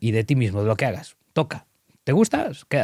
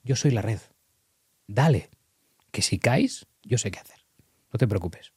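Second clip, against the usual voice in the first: put-on be the safety net for a daring kid; an adult gently encouraging the trapeze artist; calm reassurance. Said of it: "le tienes que decir como adulto".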